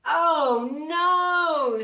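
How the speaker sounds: loud, fed-up "oh no"; loud weary bear complaint; exasperated bear groan. Acted. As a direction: groan it out, at the end of his tether. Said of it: "said Mister Bear".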